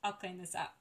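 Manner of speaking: soft, calming retold reply; quiet, easygoing comfort; reassuring. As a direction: gently let her off the hook. Reassuring the midwife in retelling.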